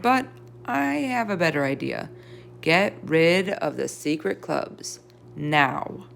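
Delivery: slow, firm order that ends on a clipped now; firm teacher. Acted. Missus Brisbane ordering the class to end the secret clubs, slow and firm. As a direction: lay down the law gently but firmly.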